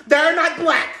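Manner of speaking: high, loud indignant snap. Acted. Wife correcting her husband, in a high, loud indignant snap. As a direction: bite the words off in outrage.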